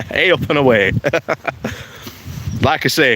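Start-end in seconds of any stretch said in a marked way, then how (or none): 0.1-0.9 put-on Yorkshire accent. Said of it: "take my Yorkshire accent off".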